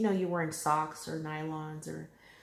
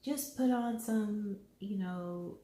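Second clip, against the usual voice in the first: imitating husband; 4 semitones higher than usual. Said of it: "he's like".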